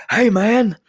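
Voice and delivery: high, loud yell into the phone; retold yelling. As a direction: shout it like he can't hear himself. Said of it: "but he was yelling".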